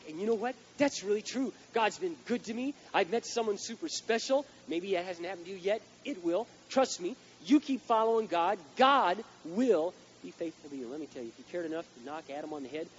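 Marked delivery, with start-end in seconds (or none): 0.1-10.9 higher, louder, slow testimony; a happy churchgoer telling all; voicing a testimony. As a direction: congregant testifying to the church, joyful. Congregant testimony voiced.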